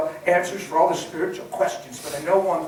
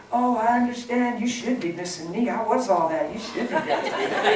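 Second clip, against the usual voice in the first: mock sentimental voice; 5 semitones higher than usual. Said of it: "they would be saying".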